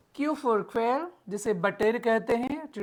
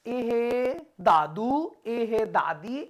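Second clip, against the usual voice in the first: put-on slow sing-song baby talk; lightly voiced parent cooing; much slower than usual. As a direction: coax a toddler to say दादू. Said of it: "ऐसे ही करते हैं ना".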